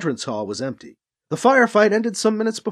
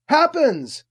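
calling back; 8 semitones higher than usual. A narrator's reading. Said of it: "Alibi called back".

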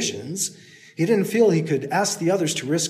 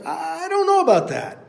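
very high; calling down; 12 semitones higher than usual. Acted. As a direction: call it down. Hero stalling, calling down.

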